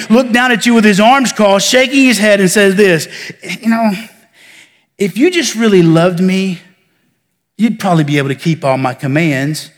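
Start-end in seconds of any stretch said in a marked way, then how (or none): 3.6-9.7 dissatisfied God. Retold or imitated. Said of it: "full of dissatisfaction".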